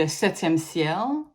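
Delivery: French phrase in an English accent; anglicised French, English accent. Real, not acted. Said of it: "said that with an English accent".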